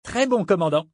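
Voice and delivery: high, eager answer; enthusiastic boy. A narrator's reading. Cabin boy answering his captain, enthusiastic. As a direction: agree keenly, like a young cabin boy. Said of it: "répondit le gamin avec enthousiasme".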